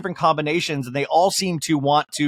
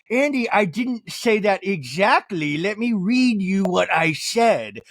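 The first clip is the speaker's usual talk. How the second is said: slow, precise lawyer voice; lightly voiced lawyer, measured and slow; lawyerly Meredith; 3 semitones higher, slower than usual. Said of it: "You really see the lawyer come out and she'll be like".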